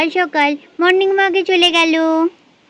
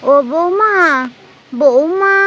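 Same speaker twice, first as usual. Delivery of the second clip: calling out; 3 dB louder, slower than usual. Acted. Calling daughter-in-law from afar.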